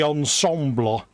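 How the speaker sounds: a hint of French accent on ensemble; mock French. Describing his model, a touch of mock French accent. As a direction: slip lightly into a French accent. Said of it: "You went all French then".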